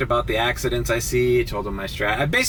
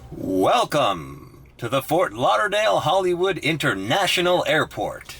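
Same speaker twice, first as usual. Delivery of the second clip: higher, announcer-style welcome done right; mock announcer welcome; 5 semitones higher than usual. Driver redoes the mock airport welcome, cleanly. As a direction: greet them like an airport announcer. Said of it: "why do I fuck this up".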